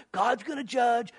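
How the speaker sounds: drawn-out taunt of God's gonna judge; slowly mock the preacher's warning; slow mocking jeer. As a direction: scoffer mocking Noah, slow and sneering. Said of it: "all you talk about is".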